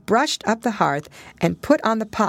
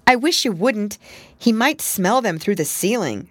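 a touch higher, worried; alarmed; 5 semitones higher than usual. Acted. Pigling warns Pigwig about the farmer. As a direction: fret nervously. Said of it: "said the alarmed Pigling".

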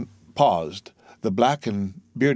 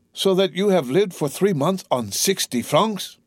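high, slow disbelief; appalled muttering; 8 semitones higher than usual. A narrator's reading. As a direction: work out the awful truth word by word. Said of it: "muttered Edmund".

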